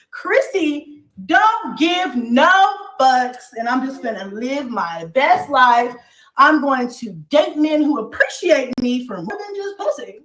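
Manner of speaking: emphatic, preachy declaration with drawn-out words; testifying about living your best life; preaching. Real, not acted. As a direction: preach it to the back row, stretching key words. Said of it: "I was preaching".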